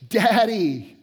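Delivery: mild mock cry of a fallen child; child's cry for daddy. Daughter falls off her bike, calling for dad: a mild mock cry. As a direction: call out Daddy like a hurt little girl. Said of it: "I hear this huge outburst".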